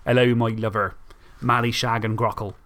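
West Country-style Isle of Wight dialect; traditional Isle of Wight accent. Shown as a demonstration. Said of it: "But traditionally".

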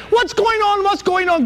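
jolted awake in alarm; panicked. Acted. Midianites waking to the noise of the attack, panicked. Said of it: "woke up in a panic".

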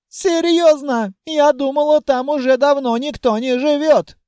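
put-on a lonely, polite young dragoness; shy dragoness. A narrator's reading. Dragoness talking to the hero, high girlish voice.

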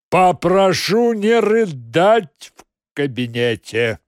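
loud, slow, angry order. Acted. Suit scolding the crying secretary, angry. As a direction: snap it irritably. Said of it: "уже злясь".

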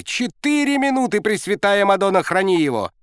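high, loud rapturous cry; near-prayer of joy; ecstatic coach. A narrator's reading. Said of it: "Казалось, он начнёт сейчас молиться".

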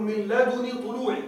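"من لدن طلوعي" with the nun of لدن given a kasra, spoken slowly; pronunciation demo. Shown as a demonstration. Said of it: "يقولون". (نطق "لدن" بكسر النون ببطء)

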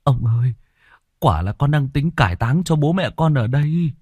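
high pleading voice; begging peasant. Acted. Beaten peasant begging the chief, high pleading.

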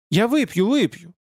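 high-pitched, hurried promise; hasty assurance. A narrator's reading. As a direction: blurt a quick, compliant assurance. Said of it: "заверила Аград торопливо". (торопливо заверяя, высоким голосом)

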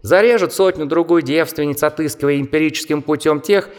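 high squeaky mocking bat. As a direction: chatter like a scornful little bat. Bat character explains.

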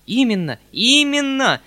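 high, loud delighted cry; rapturous exclaim. A narrator's reading. Uncle cries out to his nephew in rapture. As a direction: burst out in delight. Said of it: "вскричал дядя в восторге".

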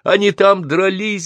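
put-on very high, drawn-out boyish yell; urgent high-pitched shout; yelling back. A narrator's reading. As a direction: holler the answer across a noisy room. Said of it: "заорал я в ответ".

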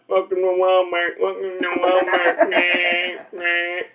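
lightly mocking slow-person voice; mumbled, slurred imitation of a simple store greeter. Comic mocking a Walmart greeter's welcome, slow-witted mumble. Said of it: "they talk like that".

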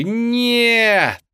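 high, loud howl of despair. A narrator's reading. Sisters seeing Belle kiss the beast, howling. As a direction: wail the word out. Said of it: "взвыли сёстры".

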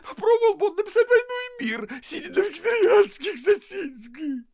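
wife screaming at husband; tearful shout. Acted. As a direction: yell back in fury.

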